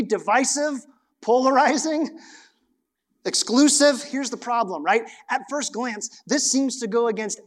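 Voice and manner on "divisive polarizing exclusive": building indignation. Real, not acted. Rising list of charges.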